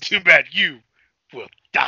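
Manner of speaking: hammed-up line from a bad actress; Talisa Soto's bad acting. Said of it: "She says both bad".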